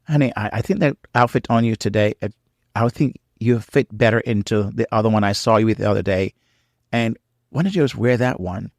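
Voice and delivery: gentle, caring suggestion; compassionate. Shown as a demonstration. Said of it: "my tone is very compassionate".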